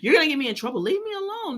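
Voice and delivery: hammed-up frantic imitation; mock desperate protest. Repeats the protest more forcefully.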